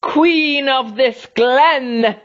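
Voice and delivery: high, slow hissing creature voice; a monster hissing her claim to the glen; hissing Snagron. A narrator's reading. Snagron claims the glen, hissing slow and high. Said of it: "she hissed".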